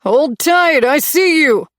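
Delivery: high, loud call from a distance; calling back. A narrator's reading. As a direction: call out to the lost girl. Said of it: "a voice called back".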